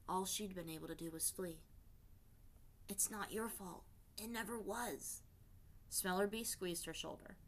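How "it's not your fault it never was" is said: reassuring. Acted. Comforting the grieving guard.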